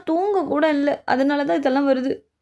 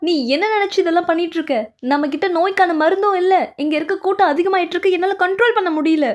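exasperated scolding; 3 semitones higher than usual. Acted. Scolding over overcrowded patients.

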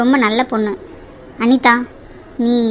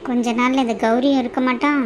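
hushed threat, fading softer; menacing aside; 5 dB quieter than usual. Acted. Daughter-in-law threatening everyone under her breath, menacing aside. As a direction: let the vow sink to a soft close. Villain privately threatens the household.

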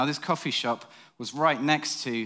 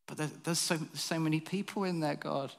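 pleading protest; 3 semitones higher, 6 dB quieter than usual. Retold or imitated. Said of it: "And I'm like".

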